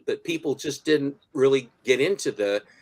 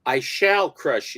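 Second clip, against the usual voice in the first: villain voice. Retold or imitated. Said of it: "with the coming of Colossus".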